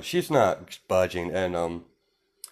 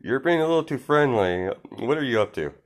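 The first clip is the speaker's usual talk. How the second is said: suspicious, freaked out; 4 semitones higher than usual. Retold or imitated. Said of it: "kind of freaked out about this".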